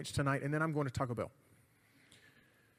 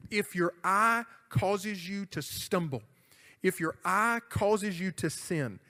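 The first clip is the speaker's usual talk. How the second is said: slow scripture quote; slower than usual. Acted. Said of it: "When Jesus says".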